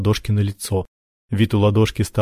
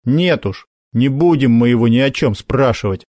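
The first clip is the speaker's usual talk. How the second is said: decisive; 2 semitones higher than usual. Acted. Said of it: "решительно сказал Макар".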